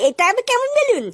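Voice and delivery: a puzzled laughing "balloon?"; amused, curious child; laughing surprise. Acted. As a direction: laugh at the odd word as you ask it. Child hears condom called balloon.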